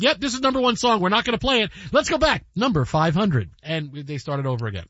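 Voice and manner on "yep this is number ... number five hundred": brisk, mildly mocking announcer read; lightly imitated countdown host. Host retells how the countdown restarted, mock announcer delivery. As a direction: mimic a radio host hurrying on. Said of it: "they said".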